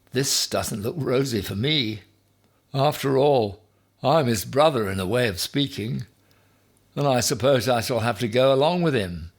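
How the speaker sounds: a worried little hedgehog; small hedgehog voice. A narrator's reading. Hedgehog brother frets to Ham: high worried voice.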